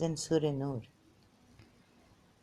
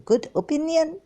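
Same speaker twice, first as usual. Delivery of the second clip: incredulous outburst; 12 semitones higher, 8 dB louder than usual. Real, not acted.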